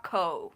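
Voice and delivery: not ko, the heavier O; wrong ko. Shown as a demonstration. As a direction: ko with a rounded American O. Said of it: "the O is lighter".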